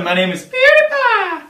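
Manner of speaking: PewDiePie screamed high and loud; high, loud shouted name; catchphrase shout. Acted. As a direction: blast your own name like an intro jingle. Signature intro catchphrase.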